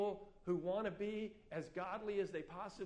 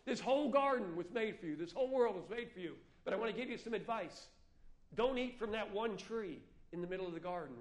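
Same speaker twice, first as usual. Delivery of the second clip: voice of God; 3 semitones higher, 7 dB louder than usual. Acted. God speaking to Adam and Eve.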